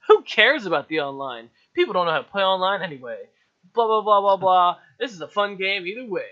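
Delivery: loud dismissive mock reviewer voice; mock a smug reviewer. Mocking a reviewer.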